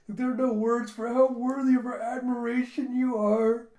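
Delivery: high, loud put-on wail of awe; gushing admirer. Commoners tearing up before their lord, gushing high admiration. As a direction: gush with overblown devotion.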